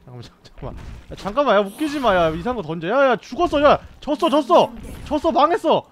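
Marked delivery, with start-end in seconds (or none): 1.2-5.8 loud, high panicked shouts; panicked yelling. Real, not acted. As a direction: yell in panic as you lose. Losing the game, panicked yelling.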